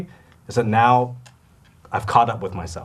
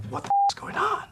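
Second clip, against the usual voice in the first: mock bewilderment; 5 dB quieter than usual. Actor recalls assistant arriving with an iPad, squeaky bewilderment. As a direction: squeal it softly in bafflement.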